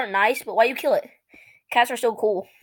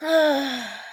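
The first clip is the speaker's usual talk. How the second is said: breathy ah; 5 dB quieter than usual. Acted. Tails off after panicked outburst.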